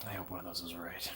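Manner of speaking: hushed murmur; quiet hopeful murmur; soft aside. Real, not acted. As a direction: mumble it to yourself. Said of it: "Was one of those right?".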